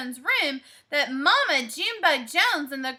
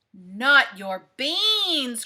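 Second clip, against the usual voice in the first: slow, outraged protest; outraged cry; 3 semitones lower, much slower than usual. Acted. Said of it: "cried Scipito, outraged".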